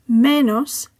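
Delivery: Menos slowly, with ME stressed; penultimate stress. Shown as a demonstration. Teacher explaining words ending in S, Menos stressed on ME. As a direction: say Menos in Spanish, ME-nos. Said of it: "stress falls on the penultimate syllable".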